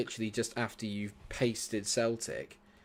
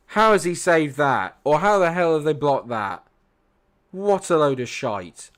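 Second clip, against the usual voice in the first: loud, furious rant; fuming; 5 semitones higher, 9 dB louder than usual. Real, not acted. Streamer ranting at the screen after a blocked shot, furious. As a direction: rage at the keeper and the defence. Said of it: "I'm fuming".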